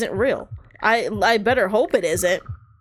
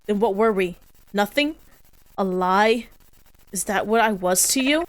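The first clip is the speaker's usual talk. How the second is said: accusing; 4 dB louder than usual. Acted. Ghost lover accuses, a quarrel.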